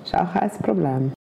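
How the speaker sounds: put-on Swiss German accent. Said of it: "auf Schweizerdeutsch geredet".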